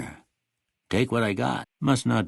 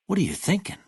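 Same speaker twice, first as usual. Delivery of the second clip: alarmed rebuke; 11 semitones higher, faster than usual. Acted. Scolding a reckless stranger.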